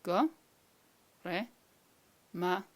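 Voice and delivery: "Go, re, ma, agat" one piece at a time; long pauses between Go, re, ma and agat; slow, separate sounds. Shown as a demonstration. Teacher giving individual sounds to repeat, slow and separated. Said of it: "I say it slowly a couple of times".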